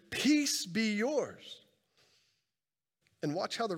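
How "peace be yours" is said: very slow, drawn-out benediction; slow blessing. Acted. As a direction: lay the words gently on them. Pronouncing peace on the congregation.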